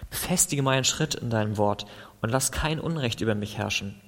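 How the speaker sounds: earnest, pleading psalm prayer; impassioned prayer reading; fervent prayer. Acted. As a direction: plead with God through the psalm.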